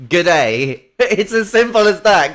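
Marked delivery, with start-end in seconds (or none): 0.1-0.9 Irish greeting. Shown as a demonstration. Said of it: "what tends to be said in Ireland is".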